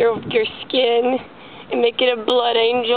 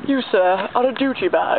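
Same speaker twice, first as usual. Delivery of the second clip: lightly posh lower voice on "You, sir, are a Gucci bag"; fancy voice; 4 semitones lower than usual. Shown as a demonstration. Asked to say it the fancy way, a lightly lowered posh voice. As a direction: say it like a snooty gentleman, a bit lower. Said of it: "Say it the fancy way".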